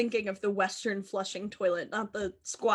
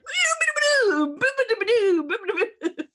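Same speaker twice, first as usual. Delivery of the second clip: dementia babble; 11 semitones higher, 4 dB louder than usual. Retold or imitated. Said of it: "every Facebook status will just be like".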